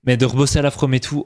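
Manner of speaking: slipping into a Franche-Comté accent. Real, not acted. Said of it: "je me suis entendu avec l'accent".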